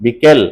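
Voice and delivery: "বিকেল" slowly, ending firmly on the l; closed syllable. Shown as a demonstration. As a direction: set off "kel" in "বিকেল". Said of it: "তালুতে গিয়ে ঠেকছে".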